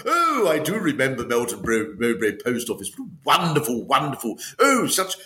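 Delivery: lightly put-on gushing celebrity guest; a hint of a delighted, plummy reminiscence; Stephen Fry. Celebrity guest reminiscing on an old woman's podcast, lightly gushing. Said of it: "my guest this week is Stephen Fry".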